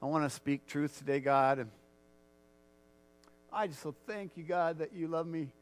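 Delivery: earnest spoken prayer; leading the church in heartfelt prayer. Acted. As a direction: pray aloud before the congregation. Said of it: "would you just join me in prayer".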